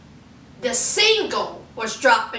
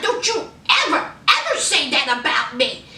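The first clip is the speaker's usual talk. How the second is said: going off. Retold or imitated. Host as Nicki warning Joe, mildly heated. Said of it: "I mean, she went off".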